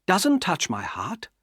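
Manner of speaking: slow, cool and even; unhurried, nothing moves her; very calm. Acted. Estella refusing Pip's love, very calm. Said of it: "said Estella very calmly".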